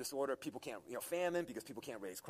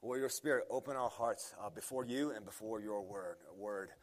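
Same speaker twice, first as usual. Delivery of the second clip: prayer; 2 semitones lower than usual. Acted. Opening prayer before sermon.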